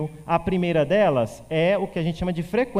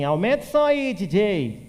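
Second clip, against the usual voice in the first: mock partygoer yelling for more volume; shouted request to DJ; 4 semitones higher than usual. Teacher imitates someone asking the DJ to turn it up, calling out. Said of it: "quando eu falo assim".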